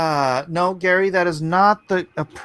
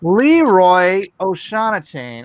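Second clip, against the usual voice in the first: announcing; 6 dB louder, slower than usual. Acted. Announcing the winner.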